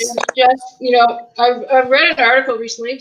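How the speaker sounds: talking through a mouthful of cheese; mouth full. Real, not acted. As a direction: still chewing curd while talking. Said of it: "I still got curd in my mouth".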